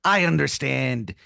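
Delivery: slow, hushed pirate rasp; pirate tomato. Acted. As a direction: whisper it like a conspiring pirate. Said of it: "he goes".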